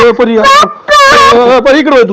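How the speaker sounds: mother urgently calling her daughter indoors. Real, not acted. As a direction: shout her back inside, hurrying. Mother calls child to run home.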